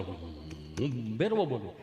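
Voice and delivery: put-on low, slow, meek boy voice; scared boy. Boy stuck in the ditch tells the sarpanch who he is, low and slow. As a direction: answer in a small slow low voice.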